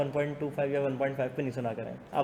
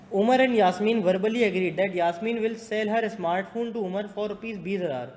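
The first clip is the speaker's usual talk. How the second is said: higher-pitched classroom read-out; reading question aloud; 5 semitones higher, much slower than usual. Real, not acted. Teacher reading a contract case to students, projected read-aloud.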